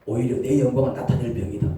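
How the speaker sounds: low, calm reassurance; calm a fearful child; God reassuring. Acted. God calming a frightened believer in a low, steady voice. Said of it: "이 말씀을".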